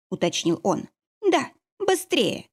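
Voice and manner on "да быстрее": slow, pressed impatience; impatient. A narrator's reading. Heroine to wolf on the phone, impatient. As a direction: hurry him off the line. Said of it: "нетерпеливо сказала я".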